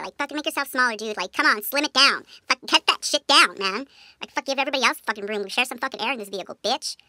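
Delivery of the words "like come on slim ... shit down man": louder exasperated rant; mock rant. Scolding a friend hogging the back seat, louder rant. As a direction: tell them off for hogging the seat. Ranting at backseat hog.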